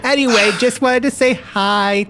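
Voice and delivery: high sugary farewell; high cloying goodbye; sweet lady voice. Acted. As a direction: chirp goodbye to everyone. Gloria saying goodbye.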